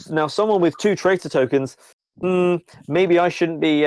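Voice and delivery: a wary officer weighing up a loyal citizen; lightly voiced suspicious official; Crackle, suspicious.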